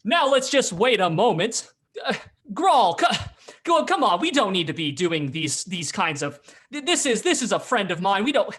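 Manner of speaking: loud, high blustering appeal; blustering drunk Baldur. Acted. Drunk Baldur cutting in to vouch for a friend, loud bluster. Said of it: "you can hear the blustering form of".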